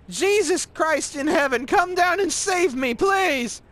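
ranting religious tirade, high and slow; Richard. Retold or imitated. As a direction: wail a drawn-out plea to heaven. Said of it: "Richard goes on this tirade".

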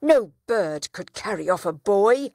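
loud outraged protest; a furious father threatens court; crying out. Acted. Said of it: "cried the town trader".

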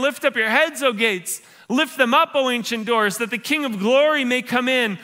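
preacher proclaiming the psalm to the congregation; proclaimed psalm. Shown as a demonstration. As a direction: lift it up to the rafters. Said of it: "Let's hear it again".

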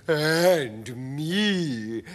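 emphatic high creature voice; spider lady voice. A narrator's reading. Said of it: "Miss Spider said".

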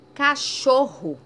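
"Cachorro" slow and loud, rr drawn out; strong rr. Shown as a demonstration. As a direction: stretch the rr in "Cachorro". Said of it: "Teve um som forte". ("Cachorro" devagar e alto, com rr forte)

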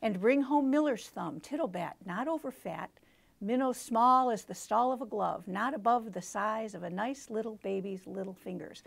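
flowing read that runs the lines together. Shown as a demonstration. Teacher showing a flowing reading of the poem, lines run together. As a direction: let the lines run on smoothly. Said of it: "read this with a little bit more fluid pacing".

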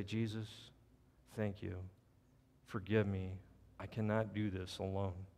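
low, soft, pausing prayer; humble prayer. Acted. Preacher modelling a prayer for the unsaved, low and humble. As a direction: pray it quietly, phrase by phrase.

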